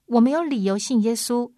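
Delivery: calling out loud and high, voicing the doubter; crying out. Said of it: "你呼叫说". (高声呼叫)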